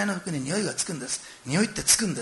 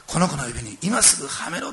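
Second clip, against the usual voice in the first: firm, louder command; loud order; 5 dB louder than usual. Retold or imitated. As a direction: call it out with urgency. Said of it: "大声叫んだんでしょうね". (父が雇い人に強く命じる)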